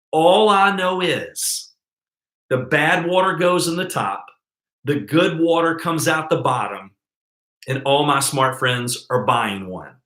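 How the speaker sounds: a light, slow cowboy drawl, unhurried. Retold or imitated. Slow cowboy drawl to a prospect asking how the filters work. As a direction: play the simple cowboy who doesn't know the science. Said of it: "he talked like this right here".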